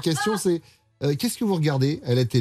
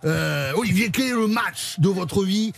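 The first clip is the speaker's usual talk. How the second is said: put-on southwest French accent. Radio host quizzing the actor in a mock south-west French accent. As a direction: play a rugby-club interviewer from the south-west, French accent. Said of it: "Je vais le faire avec l'accent".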